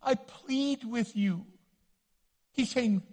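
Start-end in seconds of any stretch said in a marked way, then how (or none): 0.0-1.4 pleading. Retold or imitated. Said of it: "he's almost begging".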